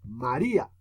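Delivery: "María", emphatic I; stress on I. Shown as a demonstration. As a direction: stress the I in "María" over the final A. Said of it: "suena más duro la I".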